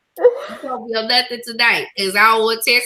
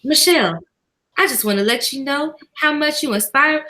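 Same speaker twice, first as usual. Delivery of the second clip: emotional reading. Real, not acted. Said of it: "read it in my real emotional voice".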